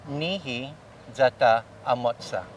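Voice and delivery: Nihi Zata Amotsa with stress on the second to last syllable of each word. Shown as a demonstration. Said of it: "be said this way".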